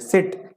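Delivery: सिट as one unbroken syllable; सिट spoken whole, without a pause inside. Shown as a demonstration. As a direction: say सिट in a single beat, no break. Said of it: "तो एक साथ बोल जाते हैं".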